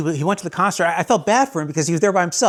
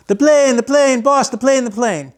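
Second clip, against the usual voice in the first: high, loud excited calling of the plane; Tattoo impression; 8 semitones higher, 4 dB louder than usual. Imitating Tattoo announcing the plane to his boss, high and loud. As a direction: shout it up high like the little man spotting the plane. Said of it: "He's the one that said".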